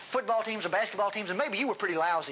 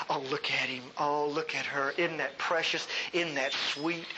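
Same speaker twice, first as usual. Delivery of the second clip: put-on cooing over a baby; 6 semitones lower than usual. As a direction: coo at the baby like a doting parent.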